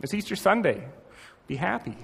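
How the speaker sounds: a mildly scolding, dismissive reading; impatient scolding tone, understated; mock rebuke. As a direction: lightly brush off her tears as a reproach. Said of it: "as if Jesus is saying".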